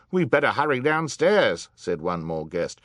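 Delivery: high, loud urgent call; rally the crowd to hurry; urging. A narrator's reading. Excited guest urging the crowd on.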